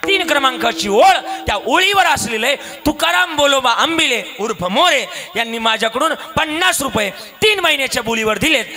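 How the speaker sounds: high, forceful witness statement; emphatic testimony. Acted. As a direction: declare each detail forcefully to the court. Witness recites the exact record.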